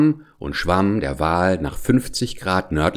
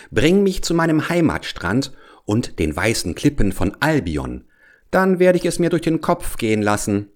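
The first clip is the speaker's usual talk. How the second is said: cheeky sailor. Acted. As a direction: talk back like a cocky sailor. Sailor answers the whale.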